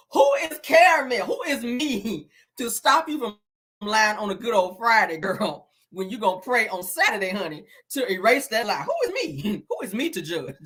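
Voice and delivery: hammed-up mock imitation with stretched questions; Wanda. Host talking like Wanda about lying, playful exaggerated mimicry. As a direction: tease her in her own way, laughter creeping in. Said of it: "before I be talking like her ass".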